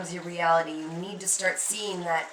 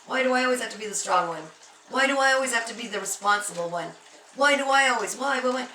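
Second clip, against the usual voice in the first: imitating crying lament; 3 semitones higher than usual. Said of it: "crying, going, just".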